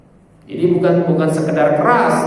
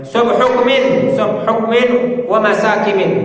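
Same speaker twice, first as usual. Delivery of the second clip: slow, higher rallying cry of a general; warning army commander; 5 semitones higher, slower than usual. Retold or imitated. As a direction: stretch it out like a commander alerting the army. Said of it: "ka'annahu mundhirun jaisun yaqulu".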